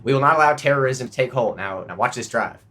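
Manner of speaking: lightly voiced president, then casual aside; George Bush attempt. Comic mimicking a golfing president, light Bush voice. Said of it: "I can't do it, George Bush".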